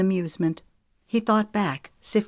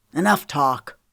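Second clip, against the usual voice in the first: raging; 4 dB louder than usual. Acted. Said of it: "Edison raged".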